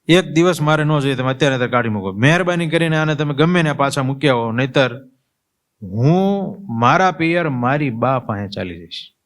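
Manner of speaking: the wife threatens to leave for her mother's; angry wife's threat. Retold or imitated. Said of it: "સીધી જ તાડુકવા માંડી".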